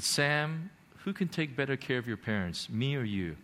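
soft, gentle questioning; quiet divine reassurance; gentle voice from heaven. Retold or imitated. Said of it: "this gentle voice from heaven".

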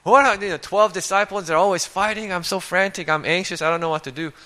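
lightly hammed-up panic; mock frantic. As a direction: pretend to be frantic, half-joking. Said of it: "can you imagine Jesus is like".

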